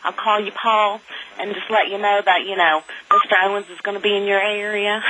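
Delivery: Southern accent. Shown as a demonstration. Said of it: "there's times that I do my Southern accent".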